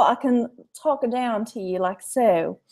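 drawn-out, joking Abilene accent; Abilene, Texas accent. Shown as a demonstration. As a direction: exaggerate an Abilene accent for fun. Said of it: "that talks like that".

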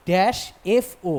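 very slow "dash এফ ও"; teacher slowing down on the blank; slow demo. Shown as a demonstration. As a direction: draw out "এফ ও" so its opening "এ" is heard. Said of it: "এফ, এটা আগে আসছে".

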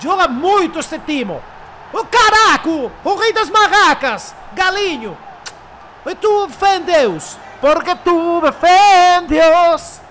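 slow, loud, exaggerated Portuguese-accented celebration; drawn-out triumphant cry in broken Portuguese; fake Portuguese accent. Mock Portuguese celebration after goal. (acento portugués exagerado)

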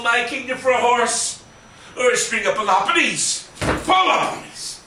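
lightly voiced blustering Gleason; a hint of brash Gleason hamming Shakespeare; Jackie Gleason. Jackie Gleason doing Shakespeare, lightly voiced and hammed-up. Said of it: "Jack Gleason doing Shakespeare".

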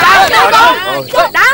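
high yelps of pain. Acted. Boy crying out while being struck, hurting. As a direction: cry out as it hurts.

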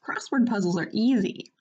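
lightly voiced boastful skeleton; a hint of a cartoon character voice; Papyrus. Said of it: "gonna try to actually do Papyrus's voice how I imagine it".

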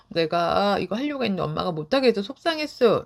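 put-on the child explaining "못하게" calmly, no heat. Shown as a demonstration. Child calmly telling mother why she was upset. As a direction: put the feeling into words evenly. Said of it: "라고 말하는 것도".

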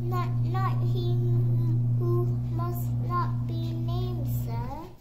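a hint of trembling little elf; frightened house-elf. Dobby fearfully hints.

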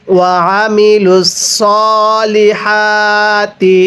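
slow melodic tilawat, drawn-out vowels; slow Quran recitation. Shown as a demonstration. Teacher recites the verse for students, slow melodic chant. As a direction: chant the verse slowly and evenly. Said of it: "আরেকবার পড়ুন".

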